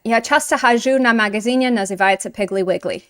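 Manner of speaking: put-on Russian with a light American accent. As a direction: mildly imitate the American student's accent. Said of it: "let me do it in his accent".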